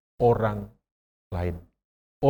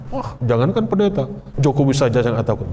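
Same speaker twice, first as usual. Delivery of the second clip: boastful quote. Retold or imitated. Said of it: "Rasanya ngomong di, di hadapan pendeta".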